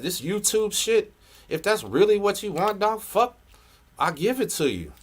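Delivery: high-pitched, fed-up outburst; exasperated. Real, not acted. Vlogger sarcastically conceding to his rival, exasperated.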